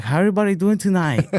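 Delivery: high mock Asian stand-up voice; Asian comedian accent. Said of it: "an Asian dude going up at the Apollo".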